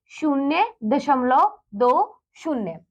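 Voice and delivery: "शून्य दशमलव दो शून्य" spoken slowly, each digit separate; slow model reading. Shown as a demonstration. Teacher shows students how to read decimals, slow and careful. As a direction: spell the digits out one by one, unhurried. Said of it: "कैसे पढ़ेंगे?".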